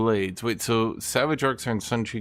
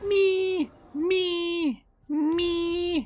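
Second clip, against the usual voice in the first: very high squeaky mew of a kitten; mimicking the kitty's short high mew; cat meow imitation; much slower than usual. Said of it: "It's like".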